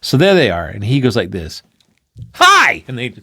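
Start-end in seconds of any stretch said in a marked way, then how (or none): 2.3-2.8 high, loud playful hello; cheeky hello. Acted. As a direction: pop in with a bright teasing greeting. Figure pranks friends.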